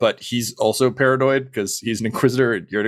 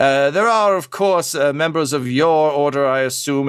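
theatrical, overly courteous, gracious, slower; 5 semitones higher than usual. A fanatical inquisitor speaks politely to newcomers, noting that members of their order are present too, in an overly courteous manner. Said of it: "Mutus is pretty much exactly what you'd imagine a fanatical witch hunting inquisitor would look like. / Mutus is pretty much exactly what you'd imagine a fanatical witch hunting inquisitor would look".

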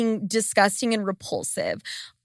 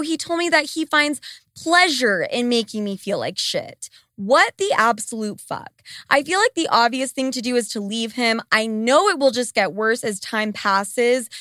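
ordinary delivery

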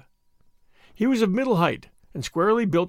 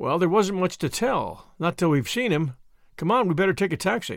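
ordinary delivery

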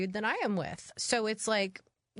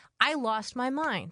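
ordinary talk, nothing marked

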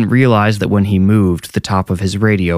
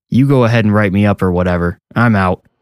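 ordinary delivery

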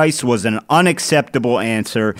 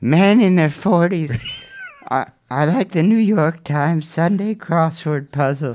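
tentative, stumbling put-on woman's voice; 4 semitones higher than usual. Reading out a Sex and the City quote as asked: Sarah Jessica Parker impression. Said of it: "like a Sarah Jessica Parker, uh, impression?".

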